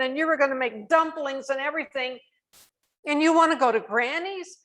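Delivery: hurt and indignant, holding back anger. Retold or imitated. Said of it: "I just got real indignant".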